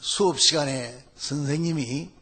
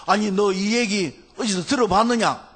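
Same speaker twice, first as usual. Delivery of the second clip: slightly raised, astonished retold question; startled question; 3 semitones higher, 3 dB louder than usual. Teacher astonished by the student's answer, startled question. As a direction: act out the teacher taken aback. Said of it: "깜짝 놀라가지고".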